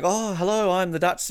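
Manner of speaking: a hint of a mock Dutch accent; half-hearted attempt at a Dutch accent. Podcaster faking a live link to Amsterdam, tentative Dutch accent. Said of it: "try and do a Dutch accent".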